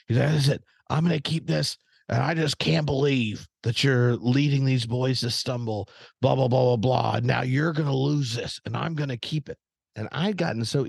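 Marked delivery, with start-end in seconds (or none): 0.3-9.6 higher-pitched mock indignation; retold scolding, pitched up; worked-up youth minister. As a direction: imitate a worked-up man laying down the law. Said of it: "getting all worked up".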